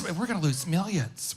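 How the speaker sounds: a calm, confident take on the wife's warning. Retold or imitated. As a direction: say it gently but confidently. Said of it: "feminine in nature, but confident".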